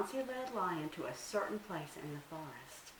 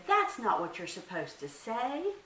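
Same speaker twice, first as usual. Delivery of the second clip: angry; 5 semitones higher, 4 dB louder than usual. Acted. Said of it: "Anansi was getting angry now".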